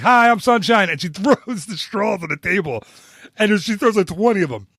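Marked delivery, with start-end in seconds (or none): 0.0-0.9 1 perky server greeting. Retold or imitated. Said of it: "and she's like".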